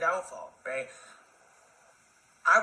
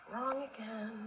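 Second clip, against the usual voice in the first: dry retort; 5 semitones higher, 12 dB quieter, slower than usual. Real, not acted. Punchline after mock quotes.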